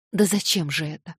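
plain reading voice

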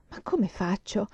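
faint tearful plea. Acted. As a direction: ask it weakly, near crying. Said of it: "fievole e piangente".

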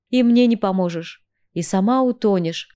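muffled voice from inside a helmet. Acted. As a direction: speak as if through a helmet visor. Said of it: "глухой голос из шлема".

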